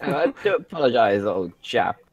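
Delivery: lightly voiced posh English gent, a touch quick; a hint of upper-class toff. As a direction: play a mild posh old chap. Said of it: "no, the posh voice".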